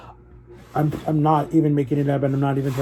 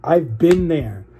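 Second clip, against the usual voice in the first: slow, heavy, each word weighed; real feeling, drawn out slowly; emotional repeat; much slower than usual. Real, not acted. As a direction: let the memory land, very slowly. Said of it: "I don't wanna get emotional".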